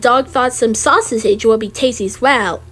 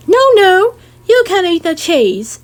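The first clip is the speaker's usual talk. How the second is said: firm no; 5 semitones higher, 4 dB louder than usual. Acted. Mother forbidding the child.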